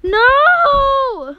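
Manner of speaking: high, loud yell. Real, not acted. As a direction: shout to stop the sibling. Sibling interrupts recording.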